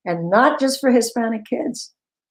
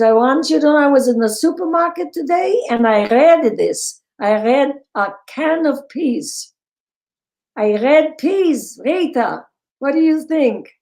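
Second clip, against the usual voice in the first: higher, lightly put-on Jewish accent, slowing on peas; proud old aunt in a so-so Jewish accent; attempted Jewish accent; 5 semitones higher than usual. Aunt proudly phoning Rita about the peas, Jewish accent attempt. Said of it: "I'm trying".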